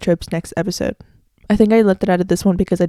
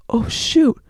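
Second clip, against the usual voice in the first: acted double take; 3 semitones higher than usual. Shown as a demonstration. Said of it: "I'm gonna act it out".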